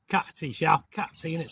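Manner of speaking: playful put-on London accent, cup of tea said with a dropped t; lightly hammed London accent, glottal stop in cup of tea; tongue-in-cheek London accent. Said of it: "my London accent".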